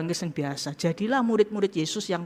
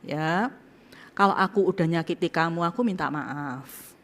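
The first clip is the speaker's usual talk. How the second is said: humble apology; 3 dB quieter than usual. Pretend. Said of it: "ngomongnya gini".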